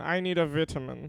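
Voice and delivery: vitamin pronounced in a posh way. Imitating how a posh person would say vitamin: posh way of saying vitamin. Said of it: "the way a posh person would say vitamin".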